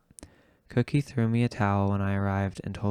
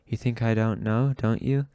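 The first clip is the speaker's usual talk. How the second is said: rising jealous accusation, pitched up at the end; angry accusation. Acted. Tony accuses the narrator over her femme, angry. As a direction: throw it at her like a dare.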